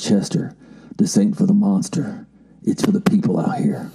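a hint of a slow country drawl, ending in a hush; slow southern drawl. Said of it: "in that real slow southern drawl".

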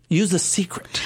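breathy secret whisper. Real, not acted.

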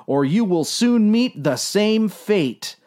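high, urgent warning; urging. A narrator's reading. Dave warning the captain of death, urgent. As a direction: warn insistently with lifted pitch. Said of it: "urged Dave".

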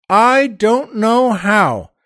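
ordinary talk

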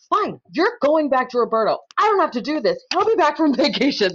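high-pitched, fed-up mock rant; hammed-up exasperation breaking into a laugh; retold exasperated telling-off. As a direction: act out washing your hands of him. Acts out telling off client.

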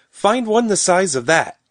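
high, loud eager call. A narrator's reading. Rose showing the children a little apple, calling out. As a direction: call it out as a playful challenge. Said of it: "she called".

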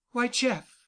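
ordinary delivery, nothing marked

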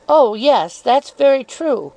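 insinuating Miss Dartle. Acted. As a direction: feign innocence while needling.

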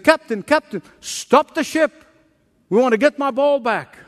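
put-on a young boy begging; boy's voice. Boy begs captain to stop.

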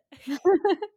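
laughing through tears; a half laugh, half cry; tearful laugh. Real, not acted. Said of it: "I got a little teary-eyed".

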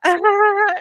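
high, drawn-out imitated "ah"; mimicked reaction. Listeners react to her as if joking, mimicked high "ah".

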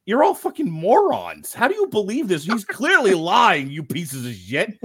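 put-on a bratty kid outraged that nobody sees the lie; mocking Kevin voice. Podcaster voicing Kevin scoffing at his gullible family, high slow sneer. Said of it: "He's like".

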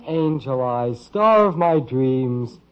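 hammed-up love-letter gushing, slow on "star of my dreams"; teasing, reading sappy lines like a lovesick suitor; mock romantic recitation. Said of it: "that silly drivel".

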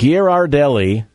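"Ghirardelli" as gear-ar-DELLY, measured out; corrected Ghirardelli pronunciation. Shown as a demonstration. Host repeating the right brand name, corrected pronunciation. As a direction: give "Ghirardelli" a clear "ar" second syllable. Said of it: "It is actually Ghirardelli".

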